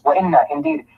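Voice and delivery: وَإِنَّا lifted sharply high; emphasis on وَإِنَّا. Shown as a demonstration. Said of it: "they are using emphasis".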